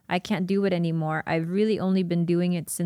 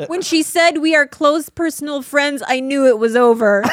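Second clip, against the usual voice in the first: loud, high giggling read; laughing reading; 7 semitones higher, 8 dB louder than usual. Real, not acted. Reading his old diary tagline aloud, laughing hard. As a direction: read it while cracking up.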